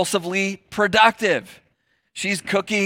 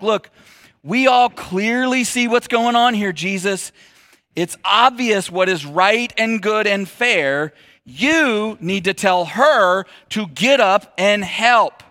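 matter-of-fact demand; 2 semitones higher, slower than usual. Retold or imitated. Martha presenting facts to Jesus.

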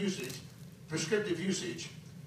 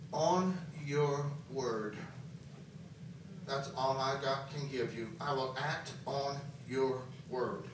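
drained, defeated; 5 semitones lower, 6 dB quieter than usual. Retold or imitated. Preacher retelling his exhausted prayer to Jesus, drained and soft. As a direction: sound like you have nothing left. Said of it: "In all defeat, unbelief, in all tiredness".

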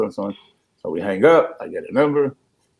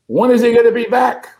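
mock widow; 10 semitones higher, 5 dB louder than usual. Widow demanding on the phone.

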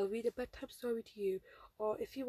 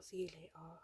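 slight, unplanned Birmingham twang on "later"; accidental Birmingham accent; 3 semitones lower, 6 dB quieter than usual. Real, not acted. Podcaster signing off to listeners, accidental touch of Birmingham accent. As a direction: let a hint of Birmingham slip into "later". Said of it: "I just pulled a British, um, uh, Birmingham accent".

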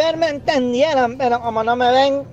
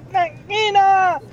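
higher, slow ring announcer call; lucha libre announcer; 5 semitones higher, slower than usual. Retold or imitated. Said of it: "un presentador de lucha libre".

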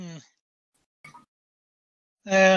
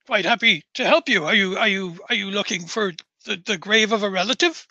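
put-on flustered Norfolk-accented caretaker, halting repeats; eager to help in a put-on Norfolk accent; faster than usual. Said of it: "a Norfolk fucking accent".

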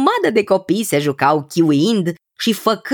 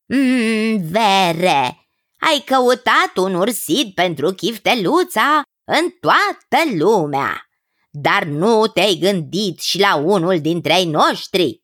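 animated cousin with a lilting delivery; lightly voiced chummy cousin; 2 semitones higher, slower than usual. Cousin proposing a suitor to the king, lightly voiced. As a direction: lightly act a familiar, suggesting relative.

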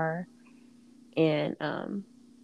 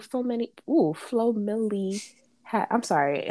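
slurred words around a retainer; talking with a retainer in; wearing a retainer; 2 semitones higher than usual. Real, not acted. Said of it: "I'm messing up my words 'cause I have Mauritanian".

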